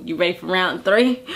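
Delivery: lightly acted low, casual come-on; low-key invitation. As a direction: ask it low and easy. Landon's first, low-key invitation.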